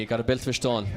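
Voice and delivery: put-on light Kerry accent, "stone" as "shtone"; a touch of Kerry brogue. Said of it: "if I'm to use my Kerry accent".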